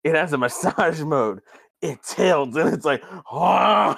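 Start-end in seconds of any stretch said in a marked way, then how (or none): 3.3-4.0 loud, higher mock gasp; imitated ecstatic gasp. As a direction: gasp as if overwhelmed with delight. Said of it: "McMahon gets more excited each time".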